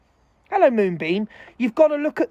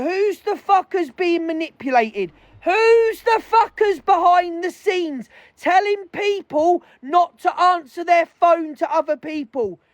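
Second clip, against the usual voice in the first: angry rant; 5 semitones higher than usual. Real, not acted. Furious rant about manipulators.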